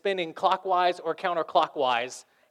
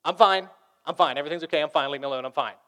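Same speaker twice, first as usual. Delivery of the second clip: curt stuffer; 4 dB louder, faster than usual. Retold or imitated. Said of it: "the stuffer is the one".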